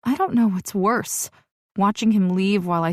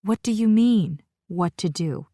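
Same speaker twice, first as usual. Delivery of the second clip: careful question. Acted. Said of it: "she questions carefully".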